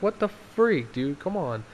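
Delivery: exasperated retold protest, falling away at the end; mock exasperation. Retells opponent's exasperated reaction.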